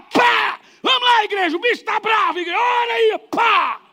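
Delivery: high, loud cry rallying the church; rallying shout. Retold or imitated. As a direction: yell to the congregation mid-fight. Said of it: "E ele gritava". (grito alto e agudo chamando a igreja)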